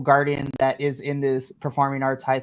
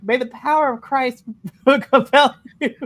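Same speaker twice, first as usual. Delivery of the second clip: loud, higher, laughing exorcism chant; mock exorcist; 7 semitones higher, 6 dB louder than usual. Sam warding off the basement demon, mock exorcist. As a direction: cast out a demon, hammed up and breaking into laughter.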